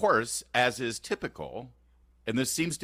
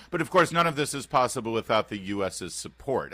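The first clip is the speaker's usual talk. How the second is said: put-on British accent; 2 semitones higher than usual. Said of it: "beautiful British accent".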